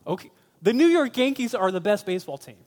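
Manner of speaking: fast, high, loud fan's insistence. Acted. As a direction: passionately insist as a devoted fan. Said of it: "he's getting passionate about it".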